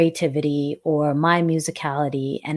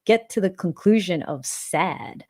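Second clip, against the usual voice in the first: pitched up, amused and incredulous; amused disbelief; 4 semitones higher than usual. Real, not acted. Host answering a critic who called it sad, amused disbelief. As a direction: laugh off the critic's verdict in disbelief.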